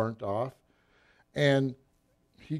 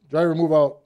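louder commander's command; retold brisk order; 2 semitones higher, 6 dB louder than usual. Upset commander sends the repaired tank off, loud order. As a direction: call out the order to the driver.

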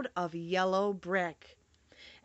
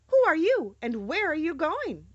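high, loud bird-like call; stork's question; 7 semitones higher, 5 dB louder than usual. Acted. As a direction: chirp the question down from above. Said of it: "asked the stork".

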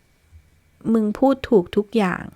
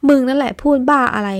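louder, higher shout hurling it back; indignant shout, pitched up; angry retort; 4 semitones higher, 6 dB louder than usual. Acted. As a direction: throw his words right back at him. Friend throws the words back.

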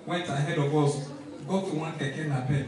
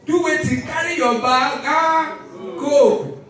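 high, loud mock command; the bird shooing him off; hammed-up order to pack and go; lightly voiced bird; 7 semitones higher, 7 dB louder, slower than usual. Bird telling him to leave.

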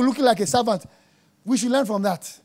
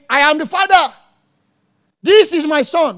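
mock wrong version; 7 semitones higher, 6 dB louder than usual. Voicing the Father, wrong order.

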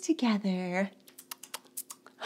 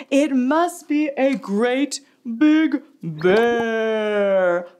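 big bear voice; 4 semitones lower, 4 dB louder, slower than usual. Acted.

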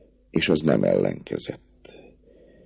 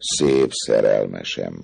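slow, coaxing endearment; gentle; 2 semitones lower, slower than usual. Acted. Captain coaxing the girl, gently. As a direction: soothe her gently. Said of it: "folytatta gyengéden Főbusz".

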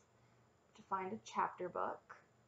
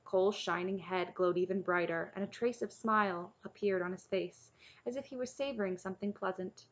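measured storybook reading; story narration. A narrator's reading. Reader reading a chapter book to listeners, story narration. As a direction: read the tale aloud evenly.

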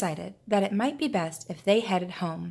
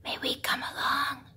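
higher whispered plea; pleading fish; 6 semitones higher, 4 dB quieter than usual. Acted. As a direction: beg softly like a small fish. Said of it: "pleaded the fish".

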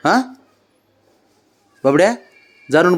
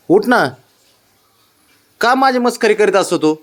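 higher, coaxing plea to wake up; coaxing mother; 5 semitones higher than usual. Real, not acted.

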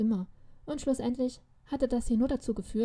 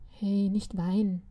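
gentle plea; slower than usual. Acted. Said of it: "bat er mich".

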